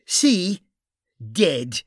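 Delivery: urgent gruff Irish cop; Irish detective voice. Acted. Bunny blunt.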